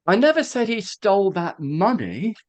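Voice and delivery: "money" singled out with extra emphasis; stress on MONEY. Shown as a demonstration. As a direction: lean on the final word "money". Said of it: "Let me do one".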